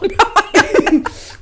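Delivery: loud, high burst of laughing; burst of laughter. Real, not acted. Telling the cleanse joke, burst of laughter. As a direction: crack up hard. Laughing at her fart story.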